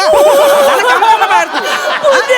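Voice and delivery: laughing outburst. Acted.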